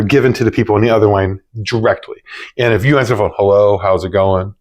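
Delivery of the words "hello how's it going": low, unenthused hello; flat, bored greeting. Shown as a demonstration. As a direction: answer like you couldn't care less. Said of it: "how does that make you feel".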